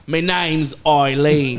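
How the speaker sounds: put-on slow, laughing Irish accent; mock Irish accent, slow with a laugh; Irish lady. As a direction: play a one-eyed Irish lady. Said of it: "one-eyed Irish lady".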